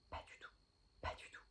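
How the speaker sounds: hushed, conspiratorial whisper, undercutting the promise; whispered aside. Pretend. Vlogger secretly admits she won't keep her resolution, whispered aside. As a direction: confess it in a barely voiced whisper.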